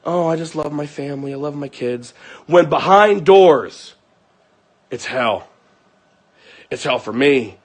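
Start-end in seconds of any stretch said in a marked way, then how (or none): 0.0-2.1 soft mock-sweet gushing; mock loving mother. Woman painting a picture for viewers, mock loving. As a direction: imitate a doting mom, hushed and low. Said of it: "Paint a picture that she's just".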